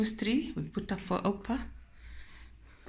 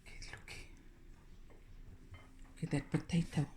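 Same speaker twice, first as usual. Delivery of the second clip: whispering; 17 dB quieter than usual. Real, not acted. Showing potato softly.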